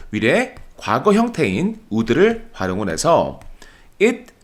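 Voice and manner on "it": slow, careful drill of the English line; slow model reading. Shown as a demonstration. Teacher slowly models the English sentence for students. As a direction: read it slowly for the class to repeat. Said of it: "이렇게 쓰는 거예요".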